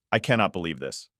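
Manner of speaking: low, hurt disbelief. Acted. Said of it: "I can hear the hurt".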